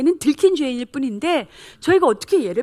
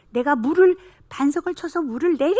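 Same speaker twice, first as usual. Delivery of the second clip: raised, indignant Moses outburst; imitated temper; 4 semitones higher, 3 dB louder than usual. Moses snapping at the Israelites over water, imitated temper. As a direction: act out losing your temper, pitch lifted. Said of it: "성질을 내면서".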